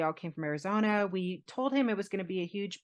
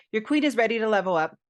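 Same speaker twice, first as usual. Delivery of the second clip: higher, louder and fast, like a big reveal; proud proposal line, pitched up; excited proclamation; 4 semitones higher, 6 dB louder, faster than usual. Retold or imitated. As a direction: announce it with a thrill. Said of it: "or no, I said".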